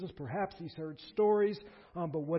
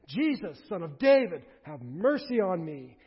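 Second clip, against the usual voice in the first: louder plea, slowing on have mercy on me; screaming out; 7 dB louder than usual. Retold or imitated. Blind man screams to Jesus over the crowd, loud. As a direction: call out over the noise with everything. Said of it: "the language here is that he screams".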